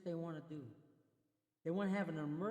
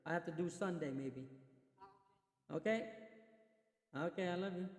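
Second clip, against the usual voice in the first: side call on the phone to wife; turning away from phone. Real, not acted. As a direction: speak off-mic into a phone. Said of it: "that was my wife".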